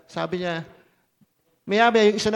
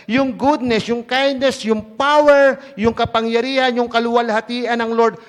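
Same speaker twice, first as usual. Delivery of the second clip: climbing in pitch and volume, peaking at power; building preaching; 2 semitones higher, 5 dB louder than usual. Real, not acted. Pastor lifting the congregation through God's traits, building louder. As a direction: build each item up to a shout on "yung power".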